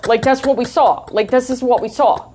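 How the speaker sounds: animated New York eyewitness account; New York accent. Retold or imitated. Witnesses describing the punches to police, in New York accents. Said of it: "in their New York accents".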